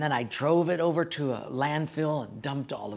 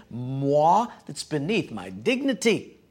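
hammed-up snooty pride, louder on Moi; mock haughty; 4 dB louder, slower than usual. Pastor mocking his own pride before God, hammed-up and snooty. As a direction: play the self-important pastor for laughs.

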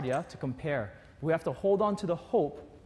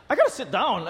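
gasping with laughter; laughing, worn out; 5 semitones higher, 6 dB louder than usual. Retold or imitated. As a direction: plead to stop, half laughing. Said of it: "and I'm like".

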